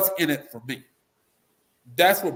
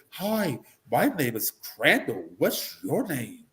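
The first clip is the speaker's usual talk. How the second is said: slow, timid, prim greeting; a scared outsider introducing himself too politely; nervous preppy guy; slower than usual. Retold or imitated. Mocking a nervous preppy Republican greeting guys in the hood. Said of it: "They say".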